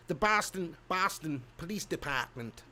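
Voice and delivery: mock Boston accent. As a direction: attempt a Boston police accent. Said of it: "is that Boston, actually?".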